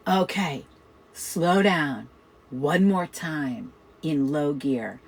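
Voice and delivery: imitating a boss's slow, measured request. Boss to fast-talking employee, slowed right down. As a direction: spell it out slowly, word by word. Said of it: "I talked really fast for him".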